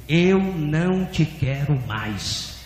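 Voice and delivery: slow, measured divine verdict; voz de Deus. Retold or imitated. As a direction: repeat it slowly, falling at the end. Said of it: "E a voz repetiu". (voz de Deus, lenta e contida)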